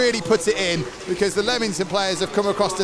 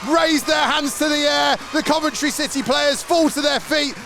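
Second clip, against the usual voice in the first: live play-by-play; 3 semitones higher than usual. Acted. Live match commentary, final whistle.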